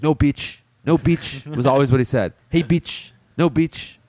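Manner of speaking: lightly imitated Mexican accent, "beach" for bitch; a mild Mexican accent, teasing; Edson's Mexican accent. Coworker imitating the busboy Edson's Mexican accent. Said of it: "That's how, that's how he talked".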